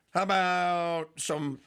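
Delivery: normal talking voice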